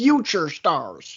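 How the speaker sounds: fed-up, annoyed, irritated announcer delivery. Imitating J R answering callers about other companies: pissed-off J R impression. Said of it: "how pissed off J R would get".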